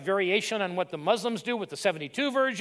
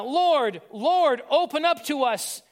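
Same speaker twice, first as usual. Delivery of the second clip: loud pleading; 5 semitones higher, 4 dB louder, slower than usual. Acted. Late bridesmaids plead at door.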